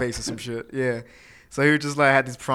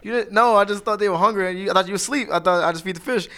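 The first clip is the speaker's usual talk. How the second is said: higher, pleading through laughter; laughing excuse; 7 semitones higher, 4 dB louder than usual. Retold or imitated. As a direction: explain yourself while cracking up. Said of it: "I was like".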